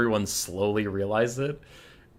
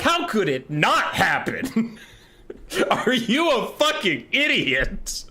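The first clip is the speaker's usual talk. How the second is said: incredulous laughing rant; 9 semitones higher than usual. Real, not acted. Ranting to viewers about Malekith's plan, high incredulous laughter. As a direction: laugh in disbelief at how dumb it is.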